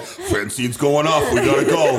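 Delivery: lightly voiced nervous dad; dad fleeing. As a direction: hurry out before trouble. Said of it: "I can just hear your dad".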